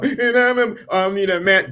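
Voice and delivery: high, whiny mock voice; hammed-up sob-story voice; mock whiny plea. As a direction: imitate a needy crybaby. Mocking emotional men.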